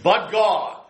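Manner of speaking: "But" hit high and falling onto "God"; weighty "But God". Shown as a demonstration. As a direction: land the two words like a verdict. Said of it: "famous sermon ... preached on".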